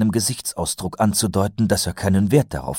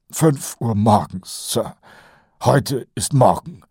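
higher, nasal-free eager sergeant voice; Kolon's voice; 5 semitones higher, slower than usual. A narrator's reading. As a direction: play the chatty old sergeant, pitched up. Colon voiced by narrator. (höher gesprochener Feldwebel Kolon)

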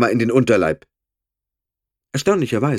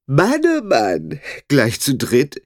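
leering sly voice; 5 semitones higher, slower than usual. Acted. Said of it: "grinste anzüglich".

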